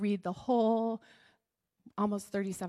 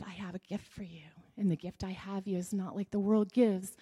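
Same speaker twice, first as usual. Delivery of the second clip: tender; 2 semitones lower than usual. Acted. Jesus offers gift of peace.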